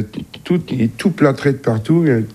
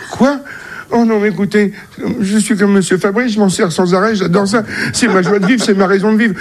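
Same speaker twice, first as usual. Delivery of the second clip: shocked patient; 6 semitones higher than usual. Acted. Patient horrifié puis supplie.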